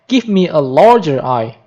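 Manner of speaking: emphasize "larger" over the rest; stress on LARGER. Shown as a demonstration. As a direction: lean on the word "larger". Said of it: "larger is emphatic".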